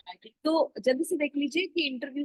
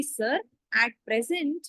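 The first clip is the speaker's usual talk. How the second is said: model interview answer; much slower than usual. Shown as a demonstration. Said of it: "आपका answer हमेशा यही होना चाहिए कि".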